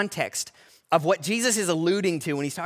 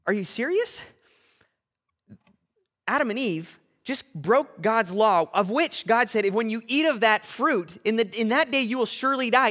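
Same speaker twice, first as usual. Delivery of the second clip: growing firmness; 4 semitones higher than usual. Retold or imitated. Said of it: "he begins to get more and more firm".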